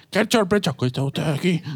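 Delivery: goofy laughing clown voice. Pretend. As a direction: play a silly clown. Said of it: "modulador de voz".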